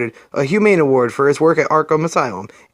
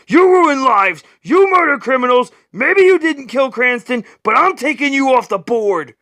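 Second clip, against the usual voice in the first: angry shout; 7 semitones higher than usual. Acted. Batman stuns the Shadow, shouting accusations. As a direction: hurl each charge at him.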